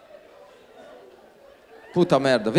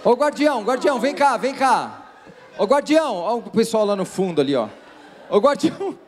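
calling out; 4 semitones higher than usual. Real, not acted. Calling the guardian across room.

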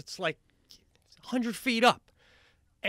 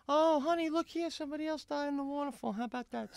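lightly voiced husband, offhand and higher; mock newspaper reader; 12 semitones higher, 3 dB quieter, faster than usual. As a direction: read the news aloud idly to your wife. Imagined couple reading newspaper.

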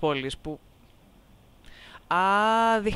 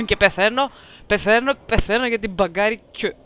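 loud hammed-up dying lament; mock dying; 6 dB louder than usual. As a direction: ham up the dying, louder. Dramatic complaint while coughing. (θεατρικό ψεύτικο ψυχομαχητό)

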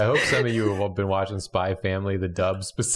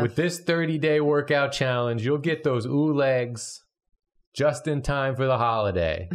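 Kermit voice. Acted. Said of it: "voice coming out of Kermit".

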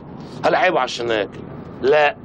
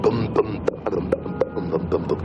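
drum sounds; 8 semitones lower, 5 dB quieter than usual. Acted. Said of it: "ده أنا هطبل له".

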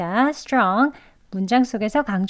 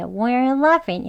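slowed again; 3 semitones higher, much slower than usual. Shown as a demonstration. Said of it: "예".

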